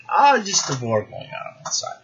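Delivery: put-on dismissive demon with a Russian accent. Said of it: "I did my Russian accent for the demon".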